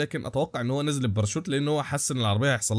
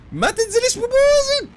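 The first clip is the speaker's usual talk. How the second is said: mock squeaky plea; 6 dB louder, slower than usual. Pleading with car in air.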